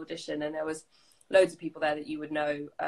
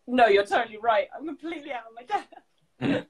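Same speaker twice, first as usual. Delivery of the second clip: mock despairing; 6 semitones higher, 5 dB louder than usual. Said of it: "I was like".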